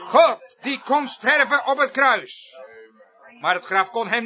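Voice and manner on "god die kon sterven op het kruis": slow, weighty proclamation; forceful preaching. Real, not acted. Preacher proclaiming God on the cross, forceful preaching. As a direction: draw the words out with pulpit force.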